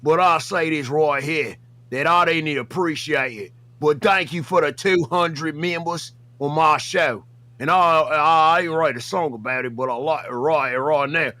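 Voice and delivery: put-on rough Australian accent for the bit; put-on Aussie accent. The speaker calling out Buff Weeb in a put-on Aussie accent. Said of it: "Why are you Australian?".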